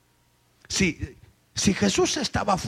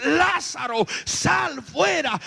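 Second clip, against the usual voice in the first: shouted command; 8 semitones higher, much slower than usual. Acted. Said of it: "cuando le grita a Jesús".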